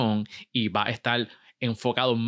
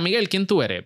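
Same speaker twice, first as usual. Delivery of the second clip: higher-pitched mock question; imitating the asker; 7 semitones higher, 3 dB louder than usual. Host voicing someone asking his identity, light mock high. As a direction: lightly act out the interviewer. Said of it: "cuando me preguntan".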